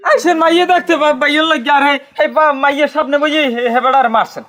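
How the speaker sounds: high, urgent, indignant pleading; agitated protest. Acted. Relative objecting to a beating in front of the hosts, agitated.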